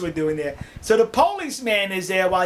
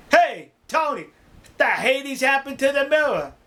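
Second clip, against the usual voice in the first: higher-pitched mock demand; retold call-out, raised in pitch; demanding question; 5 semitones higher than usual. Garage attendant confronts the cab driver about the mirror, demanding.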